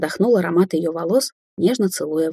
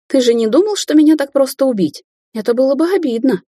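gloating taunt; 8 semitones higher, 4 dB louder than usual. A narrator's reading. Ruby gloating, high.

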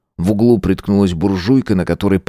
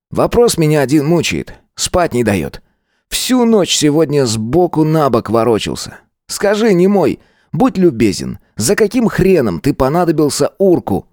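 high brash schoolboy voice; cocky teen Gvozd; 8 semitones higher than usual. A narrator's reading. Schoolboy bully accosting Nik in the yard, cocky. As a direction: swagger up and call him out.

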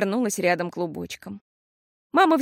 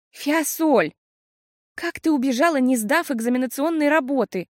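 higher, despairing question to her sister; 5 semitones higher than usual. A narrator's reading. Sister despairs over the missed exam. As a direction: plead in despair. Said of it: "в отчаянии спросила Пиппа".

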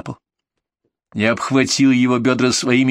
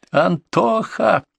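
high, drawn-out shout of a name; shouted call; 10 semitones higher, much slower than usual. Acted. Flying into the cabinet, he yells for his partner. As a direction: yell for your partner across the room. Calling partner mid-struggle.

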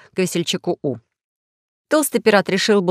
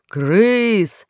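mild shout; 3 semitones higher than usual. Acted. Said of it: "закричал весельчак У".

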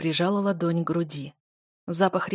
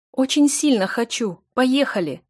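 determined, louder; 5 semitones higher, 6 dB louder than usual. Acted. Heroine answers loudly after not heard.

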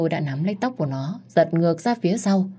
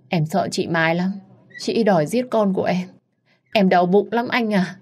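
fake whimpering; 3 semitones higher than usual. Mistress fakes tears to her lover, whiny and pleading. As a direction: play the wounded victim for sympathy. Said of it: "cô ta diễn quá đạt".

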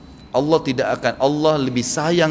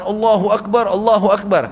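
retold weeping exclamation, higher and louder; mock tearful cry; 7 semitones higher, 5 dB louder than usual. Four riders weeping over the dead companion, crying out high and loud. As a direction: cry out God's greatness through retold tears. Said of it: "Sambil menangis".

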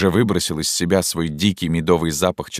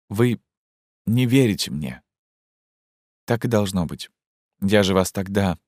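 put-on agitated young woman; 4 semitones higher than usual. Zhenya confronts Fyodor Ivanovich about the order, urgently. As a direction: voice raised higher, urgent and pleading.

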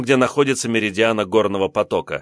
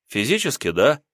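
unkind smile; 2 semitones higher than usual. Acted. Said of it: "недобро улыбаясь".

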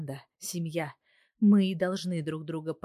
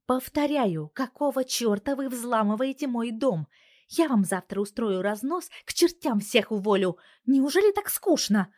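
higher, louder furious scolding; angry boss; 6 semitones higher, 5 dB louder than usual. A narrator's reading. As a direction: tear into her workers. Boss scolding her hackers. (гневный разнос начальницы)

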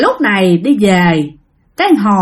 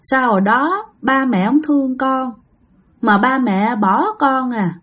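sulky reproach; 4 dB quieter than usual. Retold or imitated. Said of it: "hờn mát, trách móc".

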